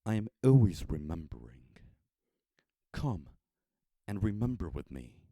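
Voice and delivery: gentle and unhurried, with a smile; calm smile. Acted. Old man inviting the traveler, calm and smiling. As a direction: serene old man at peace. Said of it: "said with a calm smile".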